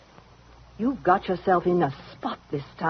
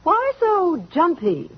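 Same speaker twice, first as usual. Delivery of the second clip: mocking taunt; 3 semitones higher than usual. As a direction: needle her about her nerves. Daisy taunts the startled Helen.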